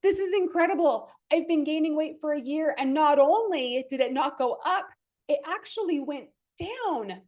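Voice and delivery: retelling a happy weigh-in with gleeful excitement; thrilled. Retold or imitated. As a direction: gush like the scale just made your day. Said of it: "I was like".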